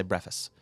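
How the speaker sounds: breakfast said as "breffist"; variant pronunciation. Retold or imitated. Co-host predicting how a friend says it, breakfast as "breffist". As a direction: drop the K from breakfast, "BREFF-ist". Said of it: "he'll say breakfast".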